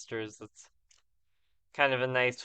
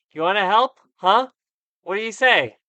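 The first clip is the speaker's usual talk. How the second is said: raised, scheming madman's boast; sly, slightly mad; 8 semitones higher, 10 dB louder than usual. Acted. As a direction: brag like a schemer with a secret. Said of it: "conspiratorial look on his face".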